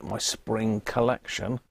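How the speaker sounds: slow, savouring mock catwalk announcement; mock fashion line. Shown as a demonstration. Joking to viewers that his springs sound like fashion, slow and savouring. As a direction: roll out "My spring collection" slowly, as if naming a fashion range, with the weight on "collection". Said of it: "Sounds like a, a fashion thing".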